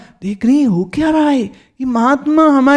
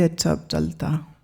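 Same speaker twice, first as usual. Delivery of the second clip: quiet leave-taking; 4 semitones lower, 10 dB quieter than usual. Acted. Mahatma takes leave of Meera.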